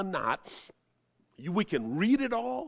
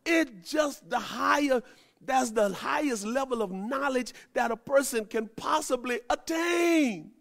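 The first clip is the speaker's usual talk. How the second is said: rising preaching fervor; 7 semitones higher than usual. Real, not acted.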